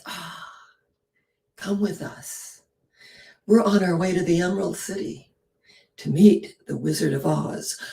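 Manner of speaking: Dorothy gently inviting the lion along; compassionate invitation. Retold or imitated. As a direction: gently welcome him. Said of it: "the compassionate heroine says".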